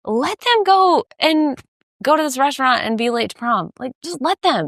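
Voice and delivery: high, insistent daughter voice; daughter advising mom. Retold or imitated. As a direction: urge mom to let them be. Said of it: "And her mom's like".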